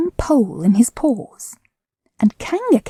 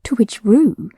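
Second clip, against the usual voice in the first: plain reading voice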